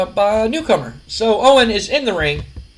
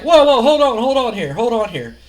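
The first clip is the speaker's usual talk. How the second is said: higher, urgent opening that eases off; stalling protest; 4 semitones higher, 3 dB louder than usual. Retold or imitated. Wrestler hides behind the referee, stalling. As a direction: imitate someone begging for a pause.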